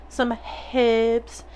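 "herbs" as "hibs", with a sounded H; playful mispronunciation. Pretend. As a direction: toy with "herbs", short i after the H. Second silly version of herbs.

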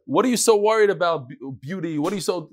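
lightly voiced lady calling out; a hint of a woman crying out; mild mock cry-out. Lady at the dance calling out, a touch mocking. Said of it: "scream out and she would say".

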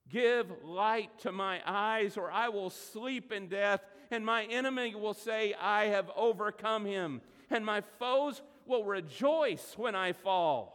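loud, slow scripture lament; pleading psalm reading. Acted. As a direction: read it like a desperate prayer. Reads the psalm.

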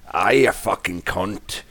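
lightly voiced Scottish or Irish accent. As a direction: toss it off in a hammed-up Scottish accent. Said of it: "Irish or Scottish accent was best".

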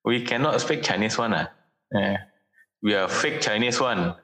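put-on light Chinese Malaysian accent with lah-style endings; easy-going Chinese Malaysian accent, slowing at the end. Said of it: "orang-orang tuh dulu tuh ngarepin gue".

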